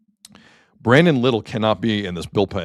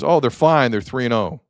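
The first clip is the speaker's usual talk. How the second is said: mock breezy dismissal, pitched higher at the start; laissez-faire attitude; 4 semitones higher, 3 dB louder than usual. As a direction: imitate carefree online fans waving off worry. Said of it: "the laissez-faire attitude I see online".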